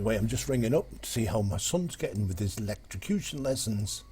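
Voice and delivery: lightly voiced Geordie; Geordie accent. Geordie father ringing again about lessons, in a mild Geordie accent. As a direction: play a Geordie dad enquiring. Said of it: "Geordie chappie rings the office".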